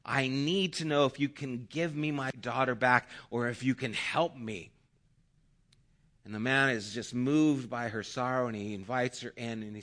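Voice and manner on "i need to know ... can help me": mildly desperate plea, a little raised; begging. Acted. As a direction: plead earnestly as a grieving mother. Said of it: "she just begs him".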